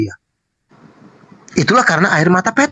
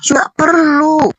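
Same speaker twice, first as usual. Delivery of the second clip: "nggak perlu" pitched much higher and drawn out very slowly; "nggak perlu" pushed up high, slow and drawn out; emphatic denial; 10 semitones higher, much slower than usual. Real, not acted. Preacher hammers the point.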